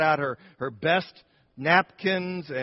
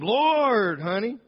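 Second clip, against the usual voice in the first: high, loud startled cry; alarmed exclamation; 7 semitones higher, 6 dB louder, much slower than usual. Retold or imitated. Husband calling his wife as gunman appears, alarmed high cry. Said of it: "Nathan exclaimed".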